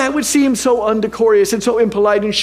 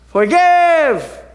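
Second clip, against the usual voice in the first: shouted forgive; 8 semitones higher than usual. Retold or imitated. Pastor shouting to the chamber, high ringing call. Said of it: "I was to shout".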